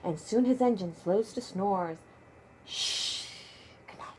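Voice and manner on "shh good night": whispered good night; whispered shh. Real, not acted. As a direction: hush the sleeping truck. Bedtime goodnight to dump truck.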